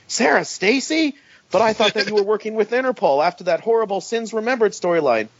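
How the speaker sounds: high startled Peter guessing the name; high mock surprise. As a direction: play a startled hero, voice lifted. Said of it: "Peter guessing each impostor".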